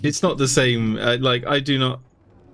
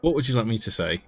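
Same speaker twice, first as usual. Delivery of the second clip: quick mock British accent; teasing British voice; 3 dB quieter, faster than usual. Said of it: "this is so fancy".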